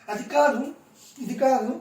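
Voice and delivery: high-pitched imitating of a flustered denial; mock defensive protest. Mimicking Tanuja defending herself, high mock protest. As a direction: brush it off, mimicking her defensiveness. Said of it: "Tanuja గారు".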